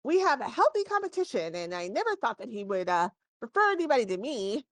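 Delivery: a gnome shopkeeper joking about his rival; lightly voiced gnome, amused. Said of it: "and he says".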